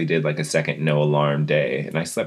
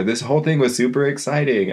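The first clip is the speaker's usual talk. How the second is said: excited self-talk; 8 semitones higher than usual. Retold or imitated. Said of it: "or, like".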